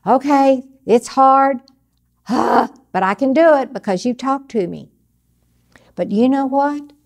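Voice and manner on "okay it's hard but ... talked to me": eager relief. Retold or imitated. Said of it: "We go".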